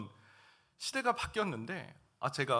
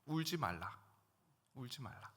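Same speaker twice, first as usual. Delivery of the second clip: tender comfort; 3 semitones lower, 7 dB quieter than usual. Retold or imitated. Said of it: "나인성 과부에게".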